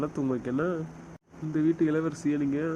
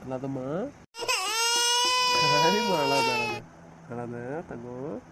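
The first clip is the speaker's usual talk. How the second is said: put-on soothing a baby; slower than usual. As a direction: gently coax the little one out of crying. Father soothing a crying baby.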